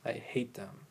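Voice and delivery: growl. Shown as a demonstration. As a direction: growl it like a beast. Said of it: "That was my growl".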